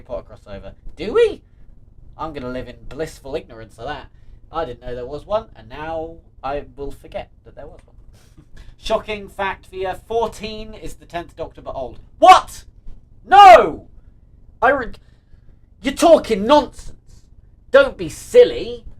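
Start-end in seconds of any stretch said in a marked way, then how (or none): 1.0-1.4 high, loud "do we?"; incredulous loud squeak; startled question. Real, not acted. Startled reply about a crossover. 12.2-18.9 high, loud, drawn-out protest; hammed-up indignant yelling; mock outrage. Outraged denial of viewer's shocking fact.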